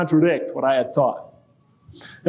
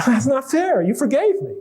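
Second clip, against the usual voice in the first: whiny daughter; 7 semitones higher than usual. Retold or imitated. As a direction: whine like a kid who lost her allowance. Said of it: "daughter voiced in story".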